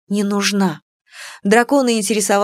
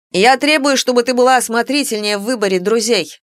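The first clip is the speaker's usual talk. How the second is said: demanding; 3 semitones higher than usual. Acted. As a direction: insist with haughty indignation. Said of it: "заявил Салима".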